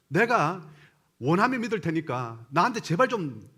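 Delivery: imitated fed-up child, mild protest; child talking back. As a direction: push back at mother in a retold plea. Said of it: "그 소리에 엄마가 너무 충격을 먹었던 거예요". (엄마에게 항변하는 아이 흉내)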